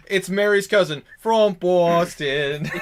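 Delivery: slow, loud mock Boston accent. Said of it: "you went more with a Boston accent".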